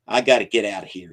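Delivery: put-on old man anxious to leave; nervous hurry. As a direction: rush it out. Jacob nervous, hurrying away.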